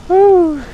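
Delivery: sudden high, loud woo; a quick thrilled woo while riding; excited whoop. Real, not acted. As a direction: let out a joyful whoop mid-sentence. Excited whoop over a bump.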